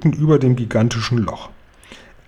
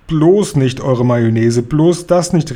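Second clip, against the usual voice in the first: calling out; slower than usual. Acted. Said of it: "rief der Guri".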